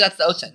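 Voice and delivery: "ocean" as OH-sin; deliberate mispronunciation. Acted. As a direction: say "ocean" with S in place of SH. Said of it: "you could say ocean instead".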